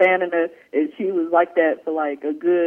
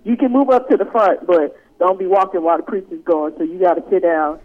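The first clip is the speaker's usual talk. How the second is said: mock church usher; 5 dB louder than usual. Host ordering late church member to sit down, bossy. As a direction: boss the latecomer into a seat. Mock pastor governing latecomer.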